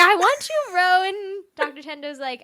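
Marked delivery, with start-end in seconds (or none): 0.0-1.0 louder, higher bro voice; mock macho love line; hammed-up bro confession. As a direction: blurt it out like a dude. Voicing Nishi's bold confession.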